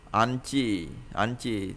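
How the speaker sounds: "anchi" with the ch voiced in the throat; throaty voiced consonant. Shown as a demonstration. Teacher demonstrates for learners, "anchi" voiced in the throat. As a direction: soften the ch of "anchi" into a throat sound. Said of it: "âm trong cổ họng thôi".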